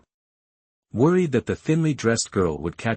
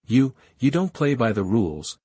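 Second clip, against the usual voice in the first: light tremble, aggrieved; trembling complaint; 3 semitones higher than usual. Acted. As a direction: whine it with a small quiver. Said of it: "complained in a trembling voice".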